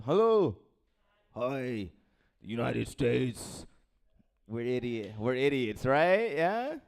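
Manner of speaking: put-on slow, lightly accented United States; mock European accent. Comic mimicking how Europeans say United States, slow mock accent. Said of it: "You guys be like".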